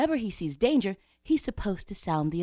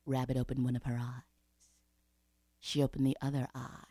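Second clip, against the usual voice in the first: low, soft narration fading to near whisper; hushed suspense; 5 semitones lower, 6 dB quieter than usual. A narrator's reading. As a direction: hush it, leaving long pauses. Suspenseful discovery of snake.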